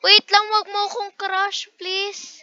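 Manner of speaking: begging an ex back. Pretend. Pleading in game, begging.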